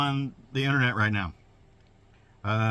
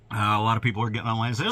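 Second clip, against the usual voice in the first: ordinary talk, nothing marked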